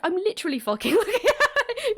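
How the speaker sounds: high-pitched quote breaking into laughter; mock insistence dissolving into a laugh; retold exasperation, laughing. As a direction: crack up while imitating an exasperated insistence. Breaks up laughing while quoting Chester.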